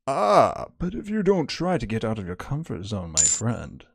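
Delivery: lightly put-on mystery figure; mysterious voice. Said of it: "Mysterious voice".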